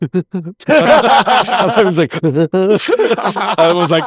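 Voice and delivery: laughing through the words, high; words squeezed out between laughs. Real, not acted. Laughing at crying memory.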